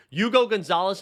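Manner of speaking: Hugo said as you-go, no H sound; Hugo without the H. Real, not acted. Podcaster praising a new player, Hugo with silent H. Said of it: "doesn't pronounce the H".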